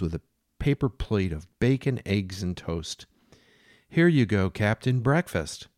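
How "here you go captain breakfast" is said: higher, louder voice for Jane; a mad woman serving the captain breakfast. Acted. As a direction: play her as doting and unhinged.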